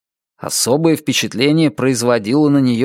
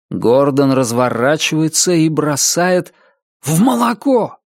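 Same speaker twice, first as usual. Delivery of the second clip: excited play-by-play; 3 semitones higher than usual. Acted. Commentator calls a wild throw.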